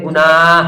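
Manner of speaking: गुनाह with the final ह sounded; audible final h. Shown as a demonstration. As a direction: let the closing ह be heard in गुनाह. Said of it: "और बोल भी रहे हैं गुनाह".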